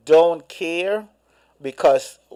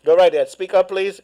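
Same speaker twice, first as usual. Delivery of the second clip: to someone hard of hearing; 3 semitones higher, faster than usual. Real, not acted. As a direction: raise the voice so the caller hears. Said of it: "Can't hear you".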